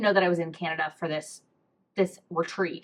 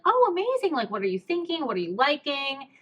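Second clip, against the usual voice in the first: imitated perky shop assistant, high-pitched "oh"; chirpy cashier; 5 semitones higher than usual. Bakery woman asking a customer's order, chirpy and eager. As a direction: lightly mimic an eager, helpful cashier.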